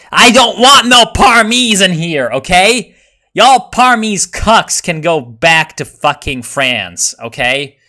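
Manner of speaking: high, loud put-on yokel voice; mock bigot rant. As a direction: play a hammed-up local bigot.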